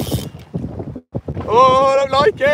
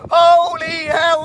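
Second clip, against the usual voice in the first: slow, drawn-out words of wonder; awed; 6 semitones higher, slower than usual. Real, not acted. Angler marvelling to the crew at the fish of a lifetime, awestruck. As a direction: savour every word in disbelief.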